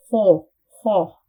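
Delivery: "ho" said with lips rounded like a whistle; lips rounded, wrong way. Shown as a demonstration. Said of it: "So if I say".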